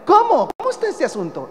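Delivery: modern-day voicing of Paul's amazement; baffled exclamation. Shown as a demonstration. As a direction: sound genuinely confused by the news. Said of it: "En términos más, este, modernos".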